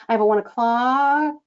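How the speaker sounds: "o'clock" left up in the air, unresolved; hanging inflection. Shown as a demonstration. Coach demonstrating the middle wiggle, hanging. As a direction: stop on it and let it hang. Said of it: "and it hangs".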